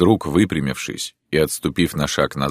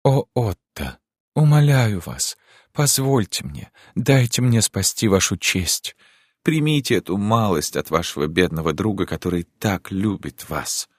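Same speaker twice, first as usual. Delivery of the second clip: caressing charming voice; 5 semitones higher than usual. Acted. Countess tenderly coaxing Otto to accept the money. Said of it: "совершенно другим, ласковым, чарующим голосом".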